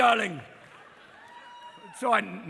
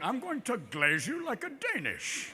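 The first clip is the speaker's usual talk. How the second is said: Gregory Peck; 3 semitones higher, 5 dB quieter, slower than usual. Retold or imitated. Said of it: "Gregory Peck going".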